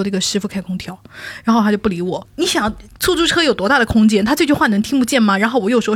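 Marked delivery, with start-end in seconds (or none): 0.0-1.0 quiet request. Retold or imitated. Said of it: "然后我就说".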